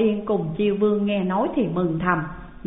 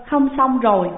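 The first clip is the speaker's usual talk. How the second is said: lightly crying; 4 semitones higher, 4 dB louder than usual. Acted. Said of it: "quỳ xuống khóc ròng".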